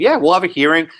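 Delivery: mildly mocking, dismissive promise; sarcastic. Board offering Carrie Buck a fake hearing, sarcastic. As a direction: feign willingness to listen with light sarcasm. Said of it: "I'm being sarcastic on purpose".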